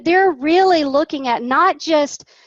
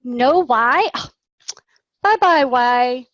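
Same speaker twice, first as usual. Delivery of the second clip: mock surprise. Shown as a demonstration. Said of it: "and say".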